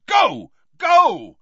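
two high, loud barked commands; Snape. A narrator's reading. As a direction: shout them away urgently. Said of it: "Snape was shouting".

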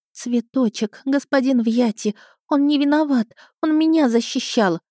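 high, pleading and tearful; through tears. Acted. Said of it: "прошептала сквозь слёзы". (сквозь слёзы, умоляюще)

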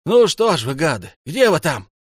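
loud, high-pitched goading; impatient, furious shout; angry yelling. A narrator's reading. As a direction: taunt them at full voice. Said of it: "орёт в сторону двери".

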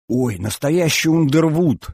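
thrilled exclamation; delighted admiration. Acted. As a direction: marvel at a wonderful find, slowly and high. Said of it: "восхитилась Альбина".

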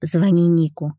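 ordinary delivery, nothing marked

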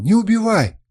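very high, loud pleading cry; desperate plea. A narrator's reading. Kernus begging the assassin, shrill loud plea. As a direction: plead with everything left. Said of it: "взмолился он".

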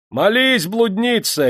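very high, loud, sharp cry; harsh shout. A narrator's reading. A man in the crowd shouts harshly at Yulka. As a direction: spit it at her. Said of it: "резко крикнул кто-то в толпе".

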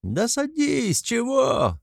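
high jeering call; mocking laugh. A narrator's reading. A laughing man jeers at Mikolka, high mock call. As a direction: tease him from the crowd. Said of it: "хохочет в толпе".

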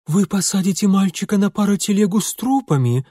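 high, shocked question; aghast that the boy rides with corpses; gasping aghast. Acted. Lady aghast at boy riding with corpses, high shocked voice. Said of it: "ахнула Полина Марковна".

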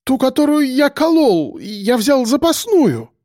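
whining bleat. A narrator's reading. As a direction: bleat the excuse like a scared goat. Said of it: "проблеял доктор".

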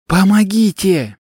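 high, loud, drawn-out cry for help; shouting after him. Acted. Girl shouting for help after the departing old man. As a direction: shout it at his back as he leaves. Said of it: "крикнула ему вслед".

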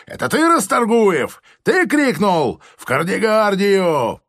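high, loud accusing yell; major shouting accusation. A narrator's reading. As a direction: yell the sentence at him. (громкий высокий обвиняющий крик)

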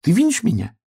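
high piglet question; piglet calling. A narrator's reading. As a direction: ask up high like a small piglet. Piglet calls to star.

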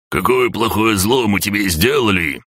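high-pitched aggrieved wail; acted high cry of grievance; wailed protest. A narrator's reading. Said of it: "завопил оранжевый".

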